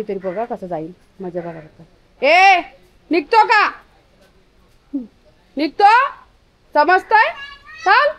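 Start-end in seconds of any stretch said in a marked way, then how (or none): 2.2-8.1 high, loud angry shout; shouting at a dog. Shown as a demonstration. Woman showing viewers how she yells at the stray dog, loud angry shout. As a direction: show how you yell at the dog. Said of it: "अशी ओरडली ना".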